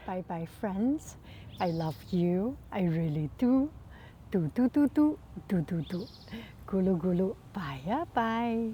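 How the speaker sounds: bouncy sing-song goodbye; kids show host. Acted.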